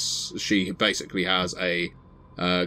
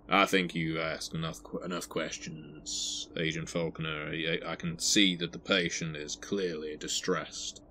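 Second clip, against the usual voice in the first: sheriff intervening; 4 dB quieter than usual. Acted. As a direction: play the sheriff firmly ending the questioning. Game master plays stern sheriff interrupting.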